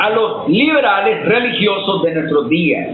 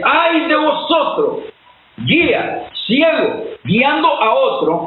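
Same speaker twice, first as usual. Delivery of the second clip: stern condemnation; 7 semitones higher, slower than usual. Retold or imitated. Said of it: "Y cuando Cristo dice".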